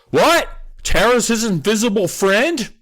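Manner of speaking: dad startled about the invisible friend, hammed-up; surprised dad. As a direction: jump up in pitch, startled.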